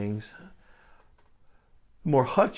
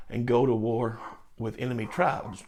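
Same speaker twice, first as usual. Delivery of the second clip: normal talking voice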